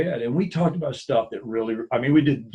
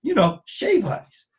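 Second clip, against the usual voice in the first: higher and slow Hawaiian Pidgin, stretching shave ice; patiently spelling it out in Pidgin; slow Hawaii Pidgin explaining; 11 semitones higher, slower than usual. Retold or imitated. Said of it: "he's just super pigeon".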